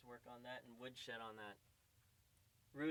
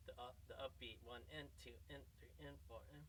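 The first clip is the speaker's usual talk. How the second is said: soft, evenly counted beat; counting the upbeat; 5 dB quieter than usual. Shown as a demonstration. Drum teacher counting the upbeat for students. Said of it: "wrist does the upbeat".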